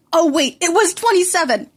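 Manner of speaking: high, loud mock surprise; sarcastic gotcha; mocking exclamation. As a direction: rub it in with fake shock. Mocking friend's injuries.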